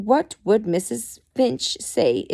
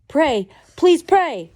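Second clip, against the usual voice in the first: high, slow begging in a light Irish voice; begging husband; 8 semitones higher, 6 dB louder, slower than usual. Acted. Desperate husband begs Hudson to pray, slow Irish plea. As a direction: plead slowly, every word a desperate request. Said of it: "the woman's husband begged".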